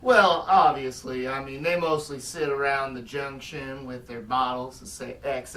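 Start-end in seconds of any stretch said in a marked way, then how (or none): 0.0-1.3 smug. Acted. Smug answer.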